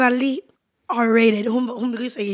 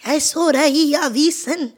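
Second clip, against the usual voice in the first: lightly voiced proud mother, slow; gushing proud mom, drawn out; imitating mom; slower than usual. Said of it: "Hun er sånn". (etterligner stolt mor, sakte)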